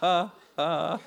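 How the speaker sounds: slow deliberate fake laugh; fake forced laugh. Shown as a demonstration. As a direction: act out a forced sadistic laugh. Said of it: "Ça sonnerait un peu fake et forcé".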